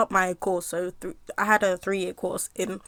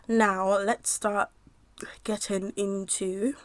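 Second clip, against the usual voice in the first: slow dramatic intro; much slower than usual. Acted.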